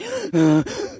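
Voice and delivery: high panting gasp; winded gasp. Retold or imitated. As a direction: imitate puffing to keep up. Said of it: "Need to walk a bit faster".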